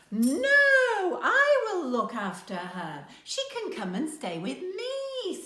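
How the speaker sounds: Granny Suze refusing to give way; insistent argument. A narrator's reading. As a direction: cut in and insist. Grannies argue over Karimi.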